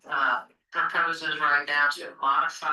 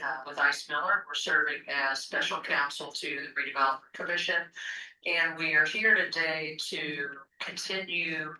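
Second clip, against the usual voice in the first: phone speaker. Real, not acted. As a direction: voice over a speakerphone. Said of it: "you're on speaker".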